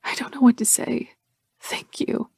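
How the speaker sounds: hushed whisper; barely voiced thanks, whispered; murmured. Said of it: "she murmurs".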